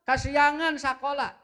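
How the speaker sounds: a mock-scolding mother rousing a late child; nagging mother. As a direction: demand the child get up now. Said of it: "Dina otak murang caranya begini".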